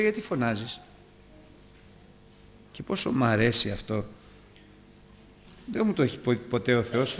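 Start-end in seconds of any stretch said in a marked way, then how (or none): 0.0-0.8 low, soft divine rebuke; hushed, deep-pitched imitation of God; God's quiet question. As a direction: voice God asking calmly, well under the preaching. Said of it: "επισκέπτεται ο Θεός και του λέει".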